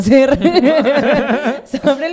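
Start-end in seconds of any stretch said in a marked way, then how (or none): 0.0-1.7 mocking laugh. Mocking gossiping locals.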